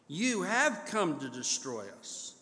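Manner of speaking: flat defiant statement, falling at the end; defiant assertion. Shown as a demonstration. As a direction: state it as a challenge, not a question. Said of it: "a defiant assertion".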